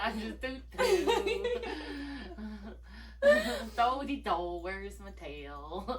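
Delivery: slow, mopey Eeyore hum, lightly voiced; mock Eeyore. Sister doing a light Eeyore bit for her sibling. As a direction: play gloomy Eeyore looking for his tail.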